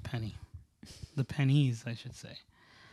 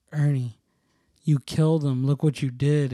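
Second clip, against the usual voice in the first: a louder mock accusation; mock accusing; 6 dB louder than usual. Older brother pranking him about the eyeball, a loud mock accusation. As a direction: blame him a little loudly, half teasing. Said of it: "he comes in and he goes".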